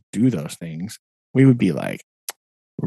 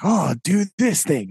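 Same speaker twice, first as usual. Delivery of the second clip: higher-pitched imitation of a pushy colleague; mock eager; 7 semitones higher than usual. Teacher mimicking those who send them back to the start, mock eager. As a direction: hand out the task in a mock high voice. Mimicking staff handing out tasks again.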